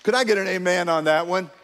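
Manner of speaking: ordinary talk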